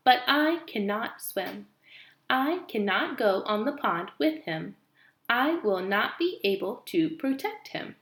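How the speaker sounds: slow, even robot voice. Acted. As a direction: speak slowly like a calm robot. Robot explains slowly.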